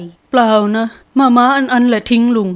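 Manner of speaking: slow, pointed denial; weighty, measured emphasis on the accusation; emphatic words. A narrator's reading. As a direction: press each word slowly and deliberately. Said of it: "อีธานเน้นคำพูด".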